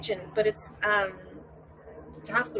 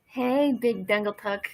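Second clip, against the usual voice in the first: loud, drawn-out greeting; big slow shout-out; calling out; 6 dB louder, slower than usual. Pretend. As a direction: holler a playful hello to someone passing. Calling out to someone passing.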